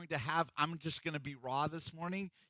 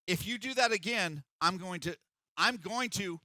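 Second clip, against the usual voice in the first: building from a raised threat to higher and louder; mock mom yell; 4 semitones higher, 4 dB louder than usual. Pastor imitating a mom threatening her kid, building to a mock yell. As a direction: mimic an exasperated mom losing it. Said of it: "she screams at the top of her lungs".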